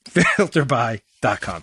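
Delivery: slow, chuckling through the tagline; laughing. Real, not acted. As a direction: laugh at yourself as you repeat it.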